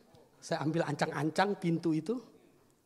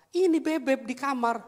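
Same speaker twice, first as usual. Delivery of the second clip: higher, louder reply; alarmed wife; 7 semitones higher, 5 dB louder than usual. Retold or imitated. Wife tells husband about the child, mildly alarmed high voice. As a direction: lightly imitate a worried wife reporting.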